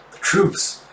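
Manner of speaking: breathless whispered gasp. Acted. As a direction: gasp the words out under your breath. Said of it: "with a gasp and goes".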